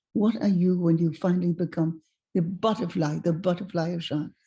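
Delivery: lightly imitated French old gentleman; French-accented gentle questioning. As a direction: ask it as a French-accented mentor. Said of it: "he said to me in a French accent".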